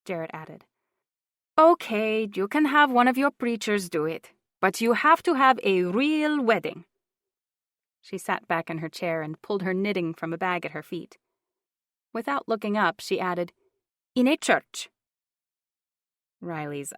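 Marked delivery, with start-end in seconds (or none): 1.6-6.9 insistent aunt, high and loud; older woman voice. A narrator's reading. Juanita voiced. 14.1-14.9 insistent aunt, high and loud; older woman voice. A narrator's reading. Juanita voiced.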